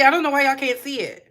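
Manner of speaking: ordinary talk, nothing marked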